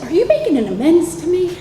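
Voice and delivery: high-pitched mock weepy question; imitated tearful voice. Boss hearing an amends, imitated tearful disbelief. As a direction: imitate someone starting to cry a little. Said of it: "he starts crying a little".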